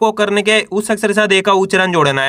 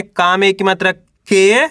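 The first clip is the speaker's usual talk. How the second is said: drawn-out letters with pauses between; teacher's spelling drill, held rising syllables; syllable-by-syllable sounding out; slower than usual. Shown as a demonstration. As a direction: sound out each letter for beginners to repeat. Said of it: "तो कैसे पढ़ेंगे".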